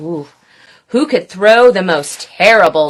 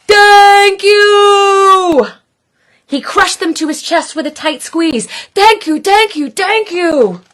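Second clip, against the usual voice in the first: 1 deep booming voice; 9 semitones higher, 4 dB louder than usual. Acted. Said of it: "in a deep, booming voice".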